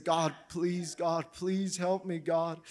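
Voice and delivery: soft, slow begging prayer; quiet humble plea. Retold or imitated. A believer falls on his face before God, soft slow plea. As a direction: whisper your need to God, humbled. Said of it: "and say".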